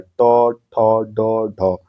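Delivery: ट, ठ, ड, ढ with the tongue curled back; retroflex sounds. Shown as a demonstration. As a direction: recite ट, ठ, ड, ढ one by one, mouth rounded. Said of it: "मुंह है वो पूरा गोल हो रहा है".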